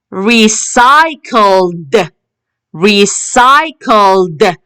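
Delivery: "recycled" very slow, ending in a released d; slow teacher's model "recycled", ed said as d; final d sound. Shown as a demonstration. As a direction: draw out "recycled" and finish on an audible d. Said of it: "We can hear the d".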